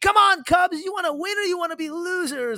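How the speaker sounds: put-on very high, shouty little-kid voice. Describing watching Cubs games with a four-year-old daughter: imitating a four-year-old yelling. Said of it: "she's yelling at the TV".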